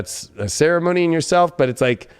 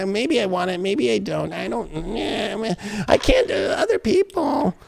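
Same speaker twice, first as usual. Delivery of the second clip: wavering; 6 dB quieter than usual. Acted. Reader voicing someone half on the fence, whiny wavering. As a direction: hem and haw softly, rising into a whine. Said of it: "it's almost like you're half on the".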